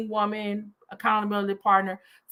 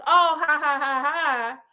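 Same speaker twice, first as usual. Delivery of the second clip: fake mocking laugh; 4 semitones higher, slower than usual.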